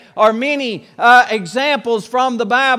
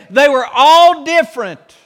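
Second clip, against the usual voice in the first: preaching shout; 3 semitones higher, 6 dB louder than usual. Real, not acted. Preacher drives home point.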